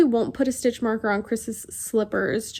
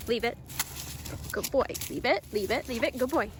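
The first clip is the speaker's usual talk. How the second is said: talking to a dog; 8 dB quieter, faster than usual. Real, not acted. Training the dog.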